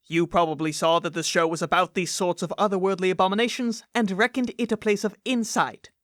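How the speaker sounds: measured, scripted mock-warning read; podcast intro narration. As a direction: deliver a solemn disclaimer with tongue in cheek.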